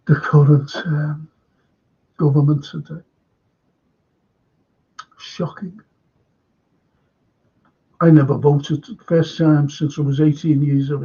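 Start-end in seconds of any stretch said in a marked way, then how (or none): 5.2-5.8 whispered. Real, not acted. Host reacts to the government.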